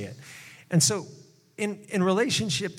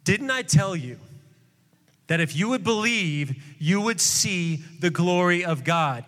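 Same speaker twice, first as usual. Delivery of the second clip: mildly aggravated. Retold or imitated. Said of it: "a little aggravated at this point".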